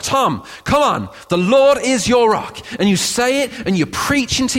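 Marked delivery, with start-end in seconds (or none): 1.3-2.6 urging emphatic. Real, not acted. Urging congregant Tom.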